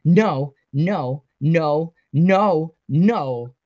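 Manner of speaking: loud, repeated protest; forceful string of separate outbursts; insistent refusal. A narrator's reading. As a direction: hammer out each refusal. Acted repeated refusal after yell.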